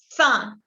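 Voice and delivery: "Cinq" with nasal IN and a final K. Shown as a demonstration. Teacher showing French five, final Q as K. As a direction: say "Cinq" ending on a K sound. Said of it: "La Q se pronuncia como una K".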